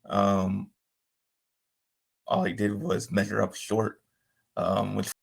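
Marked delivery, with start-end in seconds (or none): 2.3-5.1 breaking up over a call; choppy dropping phone line; bad connection. Real, not acted. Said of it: "you're breaking up for me".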